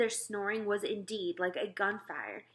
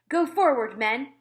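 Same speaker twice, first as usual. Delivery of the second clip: higher, louder shout of command; commander's order; 5 semitones higher, 9 dB louder than usual. Acted. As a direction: bark the order at your men. Head of army orders soldiers.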